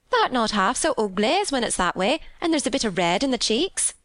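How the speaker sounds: chatty maid with Yorkshire speech. Acted. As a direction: speak up high as a Yorkshire servant girl. Martha praises Mary's looks.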